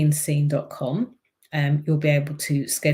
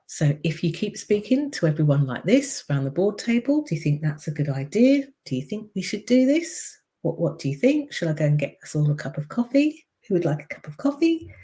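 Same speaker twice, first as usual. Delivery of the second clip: high questioning voice; 3 semitones higher than usual. Shown as a demonstration. Coach demonstrating an uptalking voice at the board table. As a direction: sound unsure and eager to please. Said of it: "Then you can hear why".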